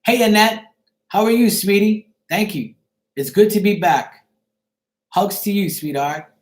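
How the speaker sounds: flirty greeting. Real, not acted. Greeting Annette live in the room, flirty and sweet. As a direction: lay on the charm, sweetheart-style. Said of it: "I'll try it again right now".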